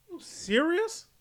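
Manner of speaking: can't believe what he's hearing; incredulous outrage. Real, not acted. Host reacts to the syrup rebrand news, incredulous shout.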